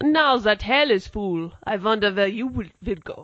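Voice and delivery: put-on German-accented delivery. Quoting a line for the others to guess, in a German accent. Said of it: "German accent".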